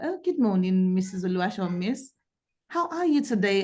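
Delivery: ordinary talk, nothing marked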